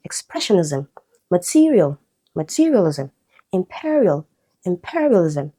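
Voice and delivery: "expressionism, material, materialism, imperial, imperialism" hit on PRESS, TE, PE; second-syllable stress. Shown as a demonstration. Teacher listing examples for students, second-syllable stress. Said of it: "let's move to second syllable".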